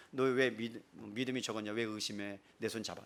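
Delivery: low, soft voice of Jesus; gentle reproof. Acted. Jesus to sinking Peter, quiet gentle reproof. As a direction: chide softly, dropping low.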